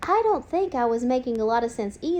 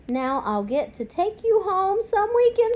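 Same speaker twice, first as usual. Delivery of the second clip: put-on boy announcing; 7 semitones higher than usual. A narrator's reading. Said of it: "Simon announced".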